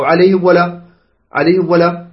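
"عليهم" run straight into "ولا"; mistaken meem. Shown as a demonstration. Teacher shows another wrong reading, run-on meem. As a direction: join the meem of "عليهم" to the waw without a clean break. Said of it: "لا تقل".

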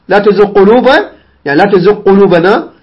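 gh of تزغ merged into a doubled q; wrong assimilation. Shown as a demonstration. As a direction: say تزغ قلوبنا as "tuzuq-qulubana". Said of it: "لا تقل".

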